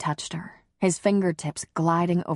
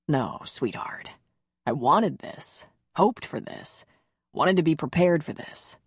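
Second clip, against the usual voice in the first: lightly voiced man. Connor speaks, lower than narration.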